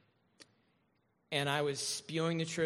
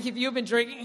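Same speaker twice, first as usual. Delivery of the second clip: stern cop; 7 semitones higher, 5 dB louder than usual. Retold or imitated. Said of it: "He's like".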